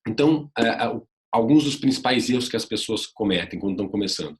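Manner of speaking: ordinary delivery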